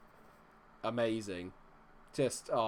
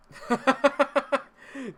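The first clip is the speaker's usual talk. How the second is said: high laugh; 12 semitones higher, 6 dB louder than usual. Real, not acted. Laughs at chat.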